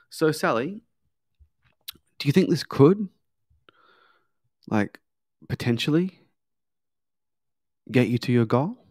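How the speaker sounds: halting question with long pauses, GOAL turned upward; curious questioning. Shown as a demonstration. Coach trial-closes client Sally, curious and paused. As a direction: draw it out with pauses before and after "potentially", "goal" rising. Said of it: "I'm upwardsly inflecting the word goal".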